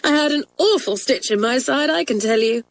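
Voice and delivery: put-on girl telling friends, amused; giggly schoolgirl. A narrator's reading. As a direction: still half laughing. Joan recounting giggles.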